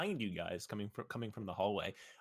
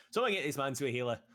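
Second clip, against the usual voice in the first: commanding order; 6 semitones higher, 7 dB louder than usual. Acted. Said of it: "She says".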